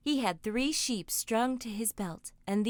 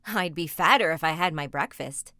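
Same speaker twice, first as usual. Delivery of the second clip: put-on cheerful boy; 4 semitones lower, 5 dB louder than usual. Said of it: "he said cheerful like".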